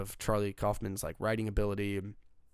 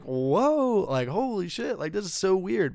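much higher and louder, half-laughing disbelief; retelling his shocked reaction to the scene; stunned reaction; 9 semitones higher, 7 dB louder, slower than usual. Retold or imitated. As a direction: blurt it out like you can't believe what you're seeing. Retold shocked reaction at sex scene.

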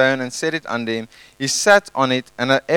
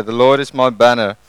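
louder, stressing Lord; shouted declaration; 2 semitones lower, 4 dB louder than usual. Shown as a demonstration. Congregation told to shout it out, louder declaration. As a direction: call it out to the room. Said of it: "And we shout it out".

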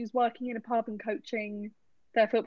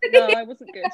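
much higher, louder protest; loud denial; 13 semitones higher, 12 dB louder than usual. Real, not acted. Podcaster loudly protests she was a bad goth, much higher and louder. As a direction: shout it down with a laugh.

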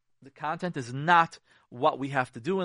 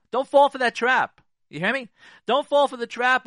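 urgent warning; 9 semitones higher, 10 dB louder than usual. Real, not acted. Warning audience, raised voice.

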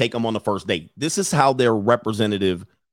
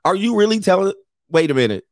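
mom's scolding, higher pitched; 7 semitones higher, 4 dB louder than usual. Retold or imitated. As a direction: mom calling out her daughter's lies. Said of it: "mom was like".

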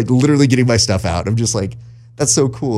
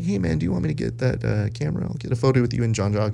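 softer, helpful offer; friendly offer; 2 semitones higher, 6 dB quieter, faster than usual. Retold or imitated. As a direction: gently offer to take the photo. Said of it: "Hey, I was like".

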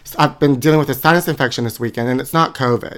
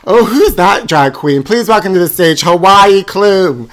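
announcer voice; 4 semitones higher, 3 dB louder than usual. Pretend. Announcer introduces drag queen.

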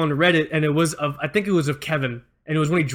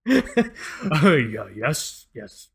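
timid stammer; much slower than usual. Retold or imitated. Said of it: "That's how he talked".

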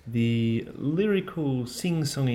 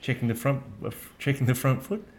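questioning umpire voice. Retold or imitated. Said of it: "he just sort of goes up at the end of everything".

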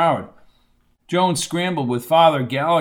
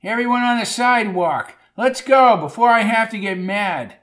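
high, bossy crowd-control yell; 6 semitones higher than usual. A narrator's reading. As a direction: order the crowd about in a raised voice. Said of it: "ran forward yelling".

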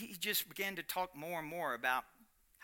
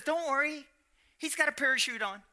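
teasing reassurance; 9 semitones higher, 5 dB louder than usual. Retold or imitated. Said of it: "he says".

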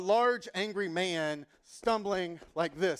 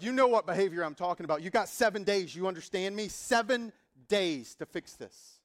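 louder, firm, menacing ultimatum; threatening landlord; 5 dB louder than usual. Retold or imitated. Landlord threatening the tenant at the door, hammed-up menace. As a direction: lay down the law.

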